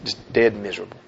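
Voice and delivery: low, soft and hollow; dead miserable. Retold or imitated. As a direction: let it sink, lifeless and soft. Inner misery.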